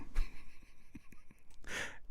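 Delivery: soft, breathy laugh without words; real soft laughter. Real, not acted. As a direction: laugh quietly to yourself. Amused by funny kind of racism.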